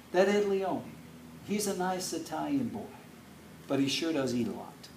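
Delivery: a hint of an approving mama; quoting the mother. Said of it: "what my mom said about you".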